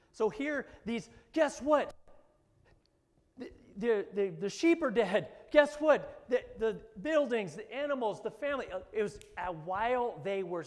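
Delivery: loud, high preaching burst; preaching shout. Real, not acted. Preacher shouting the news of Job's losses to the congregation. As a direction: call it out to the crowd.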